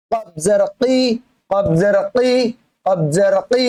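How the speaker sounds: "কি" as a q from the very root of the tongue; deep throaty qaf. Shown as a demonstration. Teacher drills qaf for learners, deep tongue-root sound. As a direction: pop the "ক" of "কফ" from inside the throat. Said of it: "গলার ভিতর থেকে".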